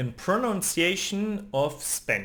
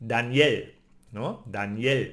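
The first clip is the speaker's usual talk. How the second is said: "Daniel" stressed on IEL; Spanish last-syllable stress; 3 semitones lower than usual. Shown as a demonstration. Teacher giving a name as example, "Daniel" stressed on IEL. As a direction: lean on the end of "Daniel". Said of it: "we say L at the end".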